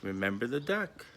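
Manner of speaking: soft, hushed threat; whisper. Retold or imitated. Sister quietly reminding her brother of the duck, hushed. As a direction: lean in and hiss it quietly. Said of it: "and she whispers".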